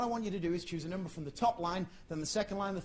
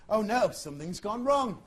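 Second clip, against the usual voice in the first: mock alarm; 2 semitones higher, 5 dB louder than usual. Shown as a demonstration. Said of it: "We'll have a little practice".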